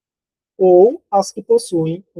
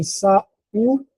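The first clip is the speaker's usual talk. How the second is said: syllable by syllable; 4 semitones higher than usual. Shown as a demonstration. Teacher sounds out word by syllables.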